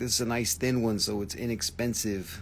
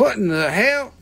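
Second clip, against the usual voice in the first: shocked outburst; 10 semitones higher, 8 dB louder than usual. Real, not acted. Shocked at the low price.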